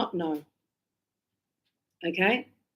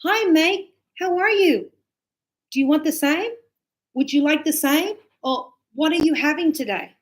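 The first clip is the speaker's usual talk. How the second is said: high, loud matey hello; friendly barista; 6 semitones higher, 3 dB louder than usual. Shown as a demonstration. Barista greets a regular customer, high and friendly. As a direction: greet a regular warmly and brightly. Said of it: "you might say".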